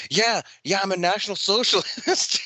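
high, mock drunk shout; drunken yelling. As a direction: yell it like a drunk on the phone. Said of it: "yelling at her".

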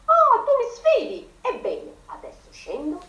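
high, loud challenge; rooster shouting. A narrator's reading. Rooster daring his unseen rival, high and loud. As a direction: bellow a challenge down the well. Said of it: "gridò Checco".

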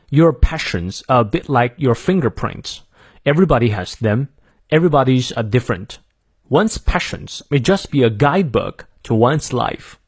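careful American model reading, R sounded; American accent. Shown as a demonstration. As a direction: read it through in American English for learners. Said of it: "我念一下美式发音".

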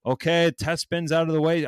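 lightly voiced raffle host announcing; a hint of a cheery streamer host; mock raffle host. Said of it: "all the raffles that I've ever partaked in were".

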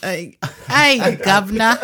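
loud mock-Cockney greeting; mock British accent. Co-host copying host's governor greeting, mock British accent. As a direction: echo a hammed-up British hail.

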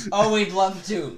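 high, loud cartoon yell; yelled acceptance. A narrator's reading. Samantha yelling in Turkey's ear, loud and high. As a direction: holler it eagerly into someone's ear. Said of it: "Samantha yelled in Turkey's ear".

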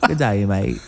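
hesitant attempt at an Aussie accent; Australian accent. Shown as a demonstration. Guest tries the accent on the host's request, amateur Australian accent. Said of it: "in an Australian accent".

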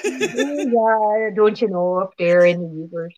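hammed-up Canadian-sounding Midwest accent; Upper Midwest accent. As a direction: put on a northern "don't you know" accent. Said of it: "sound like they're from Canada".

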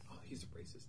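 hushed classroom gossip; very soft, acted-out aside; retold whispering. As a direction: whisper it to the girl beside you. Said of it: "they're kinda whispering back and forth".

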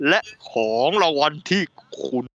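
grand, hammed-up game show announcer; game show host. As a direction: announce the prize like The Price is Right. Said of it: "ขอสำเนียงแบบ เอ่อ The Price is Right". (พิธีกรเกมโชว์แบบยิ่งใหญ่เกินจริง)

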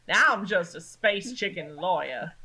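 put-on Southern accent; Southern lawyer accent. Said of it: "I reckon that all accents matter".

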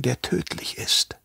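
slow, hushed whisper on the deadly part; a menacing whispered warning. A narrator's reading. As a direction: let it die to a whisper.

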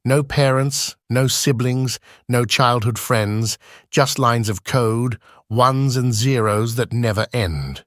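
measured rhyming recitation; steady, lightly rhythmic verse reading; poem recitation. Acted. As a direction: recite it like a spoken-word poem. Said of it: "responses ... in poem form".

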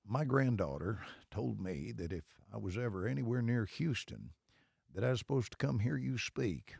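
imitating the Texan, long pause before "I have done that"; slow drawl with eternal pause. Retelling the Texan fan for the hosts, a mild slow Texas drawl. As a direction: drawl it, then hold a huge pause. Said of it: "I'm gonna do it just like he did".

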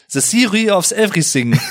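"The Theory of Everything" with th turned to s, "siri"; "Everything" said "Evrisink", German style; German accent on English. Retold or imitated. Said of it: "der Horrortitel für alle Deutschen".

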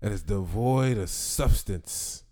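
slow, grand announcer read; dramatic announcer voice. Acted. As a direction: announce it like an epic trailer.

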